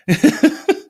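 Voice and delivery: short loud embarrassed laugh; flustered little laugh; nervous laugh. Real, not acted. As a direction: laugh off the glitch. Laughs at technical trouble.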